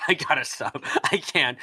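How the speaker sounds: hoarse, worn-out voice; strained voice. Real, not acted. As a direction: voice strained from singing. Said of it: "He can't talk anymore".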